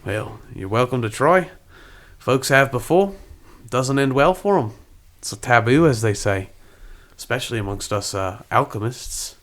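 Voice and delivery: koala alchemist in mock-Aussie; attempted Australian accent. Koala warns Elijah of the taboo, attempted Australian accent. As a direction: warn in a put-on Australian accent. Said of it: "How do we do Australian?".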